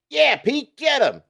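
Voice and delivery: put-on high, excited young cheer; a boy cheering Peter on, high and excited; young voice screaming. A narrator's reading. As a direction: yell it from the crowd like a kid. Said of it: "a young voice screams".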